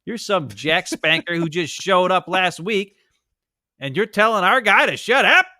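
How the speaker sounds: mock outraged fans. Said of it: "the Jets fans are like".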